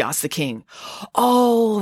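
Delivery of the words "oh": higher, airy "oh"; breezy Scheherazade. A narrator's reading. Scheherazade explains the knock to the king, breezy. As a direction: brush it off with a drawn-out oh.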